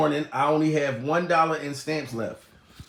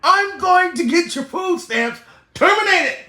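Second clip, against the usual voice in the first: imitating Steve Harvey; 11 semitones higher than usual. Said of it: "That motherfucker said".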